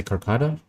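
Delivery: "Carcada" in three syllables, ending on an "ah"; tentative pronunciation. Shown as a demonstration. Unsure how the drink is said, testing "Carcada" with an "ah" ending. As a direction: try out "Carcada" as a question, ending "-da". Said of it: "Am I supposed to say".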